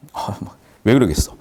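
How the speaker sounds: ordinary talk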